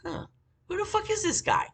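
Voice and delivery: high, baffled inner voice; incredulous thought. Retold or imitated. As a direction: go way up in disbelief. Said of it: "And I was like".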